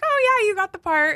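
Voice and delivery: mock cheery phone voice announcing the role; cheerful news. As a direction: play the casting call breaking good news. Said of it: "they were like".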